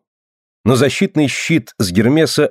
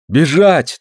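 insistent; 5 semitones higher than usual. Acted. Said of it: "твердил Дилон".

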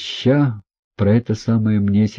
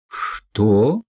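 drawn-out shock. A narrator's reading. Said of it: "в удивлении, в негодовании, в ужасе протянула".

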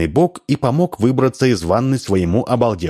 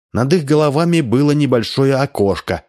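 ordinary delivery, nothing marked

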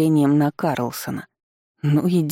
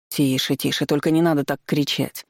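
pleading. Acted. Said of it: "взмолился Андрей".

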